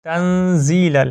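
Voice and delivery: تنزیل ال said slowly and deliberately; slow demo. Shown as a demonstration. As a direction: break the words apart to show the letters. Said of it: "زا کو آپ نے لمبا کرنا ہے". (تنزیل ال کو آہستہ الگ الگ پڑھنا)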